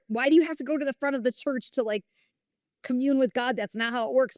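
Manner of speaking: tossing off a retold complaint; rolling her eyes at having to walk to the front; scoffing. Scoffing at altar calls, retold.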